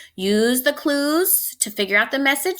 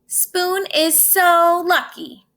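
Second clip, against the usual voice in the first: envious sigh; 7 semitones higher, 4 dB louder, slower than usual. Acted. Knife envies Spoon.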